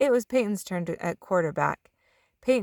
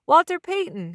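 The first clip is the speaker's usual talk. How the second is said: excited answer; 9 semitones higher, 5 dB louder than usual. A narrator's reading. Kid answering trivia.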